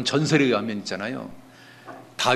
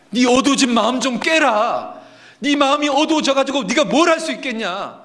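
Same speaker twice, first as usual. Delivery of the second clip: impassioned self-rebuke; 12 semitones higher, 4 dB louder than usual. Acted. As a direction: shake your own darkened heart awake. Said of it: "스스로에게 이야기하는 겁니다".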